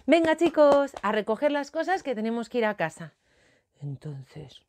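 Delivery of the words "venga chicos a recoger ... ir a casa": lightly voiced teacher, higher at the start; cheery teacher calling. Teacher telling children to tidy up, calling out. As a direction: call the class to order briskly. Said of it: "la seño le decía".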